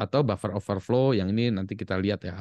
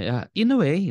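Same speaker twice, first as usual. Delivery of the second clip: higher, louder, dry mock official; deadpan it like the school official; school's dry reply; 8 semitones higher, 5 dB louder than usual. School answers the worried mother, mock dry official voice. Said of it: "eh, sekolahnya".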